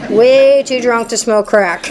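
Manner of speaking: slow, laughing punchline. Real, not acted. Speaker jokes to the meeting, laughing slowly. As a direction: chuckle through it, drawn out.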